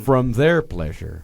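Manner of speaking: slow, drawn-out impression; faraway, deliberate killer voice; imitated wistful killer. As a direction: stretch it out as if savoring a memory. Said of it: "wistful look in his eye while he was saying it".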